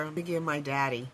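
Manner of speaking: hoarse, losing her voice. Real, not acted. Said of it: "I don't know why I'm losing my voice".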